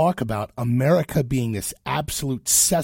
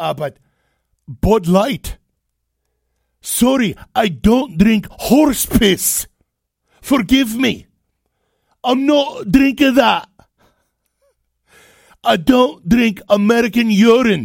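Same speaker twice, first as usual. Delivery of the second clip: very loud, terrible put-on Scottish accent; 9 semitones higher, 8 dB louder than usual. Acting out european visitors in america, in a terrible scottish accent. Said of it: "That's my terrible Scottish accent".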